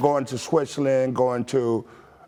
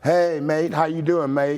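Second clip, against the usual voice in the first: a light British accent, slightly higher; 5 semitones higher than usual. Shown as a demonstration. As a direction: show off the British "mate" greeting. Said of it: "what are some of the English words that maybe you picked up".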